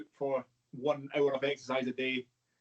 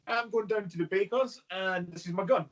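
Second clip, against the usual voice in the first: mock casual; 3 semitones higher than usual. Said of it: "just so casual with their guns".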